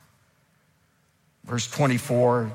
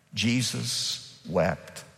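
solemn hush; 5 dB quieter, much slower than usual. Acted. Solemn reading of shortest verse.

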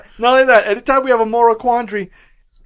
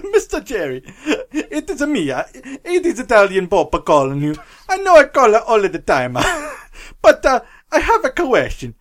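bad Italian accent. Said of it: "stereotypical bad Italian accent".

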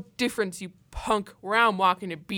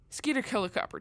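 menacing laugh; much faster than usual. Acted.

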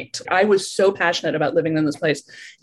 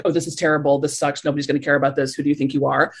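inner critic voice; 5 semitones lower, faster than usual. Retold or imitated. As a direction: let the doubting voice in your head grumble low. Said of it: "having that voice in my head that's like".

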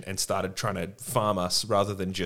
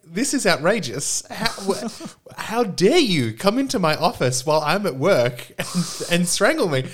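much higher, louder and slow, a squealing outraged priest; indignant Hell Priest; 9 semitones higher, 5 dB louder than usual. Retold or imitated. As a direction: squeal the protest like an offended clerk. Hell Priest protests being strangled.

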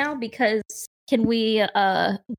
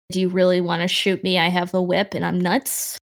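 quick, slightly low tough-guy threat; playing hardball; 4 semitones lower than usual. Cornered Tully to the armed guard, playing hardball. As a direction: threaten them fast, lightly in character. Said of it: "He could always play hardball".

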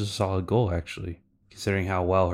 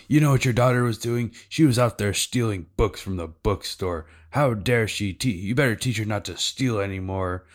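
raised, fast retold telling-off; mock-outraged tattling on a kid; lightly hammed-up scolding of a parent; indignant scolding; 2 semitones higher, 4 dB louder than usual. Angry man scolds the mother.

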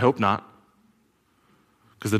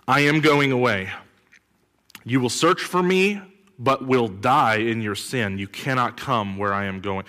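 scripture reading. Acted. Preacher reading Jesus' warning to the crowd, solemn. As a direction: read Jesus' words with weight.

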